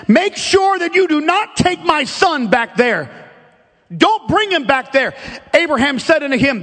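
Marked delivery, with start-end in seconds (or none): 0.1-5.1 impassioned, insistent warning; pitched up, firm command with passion; emphatic. Acted. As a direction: lay down a firm, emphatic order. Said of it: "He's emphatic 'cause he doesn't wanna".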